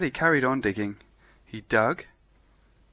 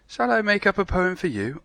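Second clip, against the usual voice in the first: higher, eager sheep voice; sheep's voice; 8 semitones higher, 4 dB louder than usual. Acted. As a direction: offer it brightly as the sheep. Sheep offers a poem.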